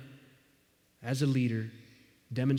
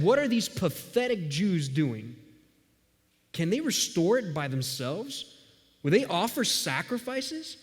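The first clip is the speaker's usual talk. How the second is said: mocking sneer; 4 semitones higher than usual. Sanballat mocking the Jews.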